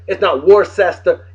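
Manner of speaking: Worcester as WOR-sester, three syllables; mock the wrong Worcester, WOR-ses-ter; spelling pronunciation. Shown as a demonstration. Vlogger listing wrong takes, Worcester as WOR-ses-ter. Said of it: "It's Worcester".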